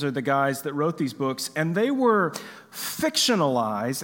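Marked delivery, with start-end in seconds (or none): 1.7-4.0 fictionalized lifted out and set apart; stress on fictionalized. Real, not acted. Preacher clarifying that the books were fiction, stressing fictionalized. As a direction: lean on the word fictionalized. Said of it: "I stress the word fictionalized".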